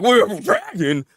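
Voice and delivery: rising to a high, loud mock yell; imitating a panicked friend screaming. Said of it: "sucker was freaking screaming".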